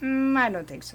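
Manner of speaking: gentle and polite. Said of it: "trying to say it nicely".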